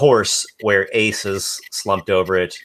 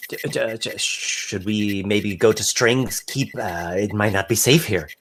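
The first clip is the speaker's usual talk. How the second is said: nervous stammer. Acted. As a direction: stammer it out while wringing his hands. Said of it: "wrings his hands together nervously".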